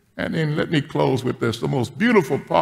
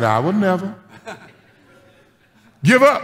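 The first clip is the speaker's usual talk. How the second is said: dutiful repeating; 7 semitones higher than usual. Retold or imitated. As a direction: repeat it like a scolded schoolboy. Grandpa repeating after the girl.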